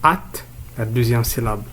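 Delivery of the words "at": "at" said alone as one syllable; isolated syllable. Shown as a demonstration. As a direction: sound out "at." by itself, pitched higher. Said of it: "on va le découper en syllabes".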